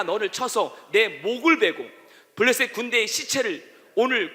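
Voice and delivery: slow, loud, rising scripture proclamation; David's bold declaration read out at full force; preaching at full force. Acted. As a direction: proclaim it like a battle cry. Congregation reads David's declaration.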